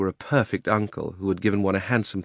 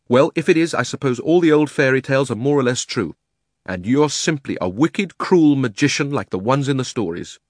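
put-on mildly heated boy, raised pitch; indignant Diggory; 5 semitones higher, 4 dB louder than usual. Diggory calls uncle a wicked magician, indignant. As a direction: accuse him earnestly, voice raised.

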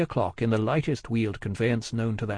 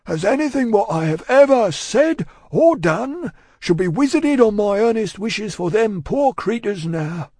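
solemn holding forth; 10 semitones higher, 7 dB louder than usual. A narrator's reading. Cruncher holding forth to Miss Pross, solemn. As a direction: preach it out with weighty solemnity. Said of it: "additional solemnity, additional slowness".

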